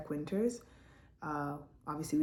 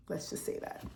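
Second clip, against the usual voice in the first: muttered aside; 6 dB quieter than usual. Real, not acted. Dark aside.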